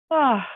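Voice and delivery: a demonstrated, audible yawn; voiced yawn. Shown as a demonstration. Showing listeners how to yawn with a sound, voiced yawn. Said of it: "on va bâiller en faisant un son".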